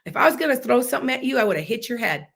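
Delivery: quick mock-angry comeback with a touch of heat; temper flaring. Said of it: "and I got a temper".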